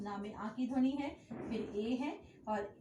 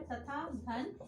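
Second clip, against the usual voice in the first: slow breakdown; 3 dB quieter, much slower than usual. Shown as a demonstration. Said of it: "अब तथैव में देखिए तथा".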